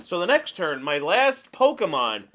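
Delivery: emphatic ranting, leaning hard on key words; exasperated rant. Real, not acted. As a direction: rant in disbelief at bad play. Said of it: "Sorry that I'm ranting".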